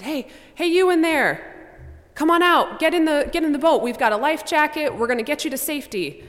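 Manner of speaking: rescuers yell from the boat, high and loud; calling out. Acted. Boat crew calls Pete out of the house, loud and high. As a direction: shout toward the lit house over the water.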